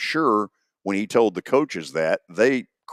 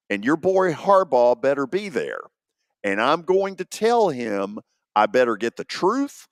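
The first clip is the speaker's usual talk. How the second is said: stern demand; 4 semitones higher than usual. Retold or imitated. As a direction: lay down the law like an angry boss. Commissioner's demand, acted out.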